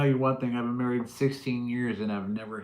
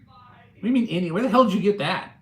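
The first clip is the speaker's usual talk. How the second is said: incredulous; 7 semitones higher, 8 dB louder, faster than usual. Real, not acted. Incredulous at chat's question.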